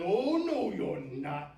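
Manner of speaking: loud high swoop on "Oh, no"; big cranky troll refusal; defiant troll. A narrator's reading. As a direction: shout the goat down as a troll. Troll refuses the middle goat.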